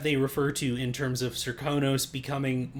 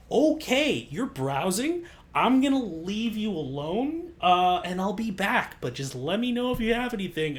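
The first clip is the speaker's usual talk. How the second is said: flustered cashier; 5 semitones higher than usual. Retold or imitated. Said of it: "And you're like".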